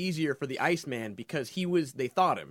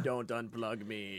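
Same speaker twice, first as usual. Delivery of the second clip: quiet, slow, lower robot plea; a machine pleading as it powers down; dying robot voice; 6 semitones lower, 8 dB quieter, slower than usual. Pretend. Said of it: "Like a dying robot".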